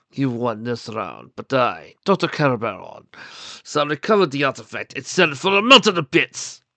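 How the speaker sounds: villain's vow. Acted. Villain vows to recover artifact.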